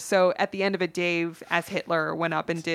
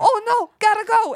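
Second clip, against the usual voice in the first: much higher and louder hammed-up panic; mock panic; 7 dB louder than usual. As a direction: squeal it as you run offstage. Fleeing the officer on stage.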